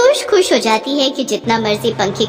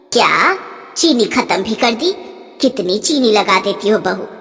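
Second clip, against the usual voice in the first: stingy mother-in-law. Acted. Mother-in-law rations sugar.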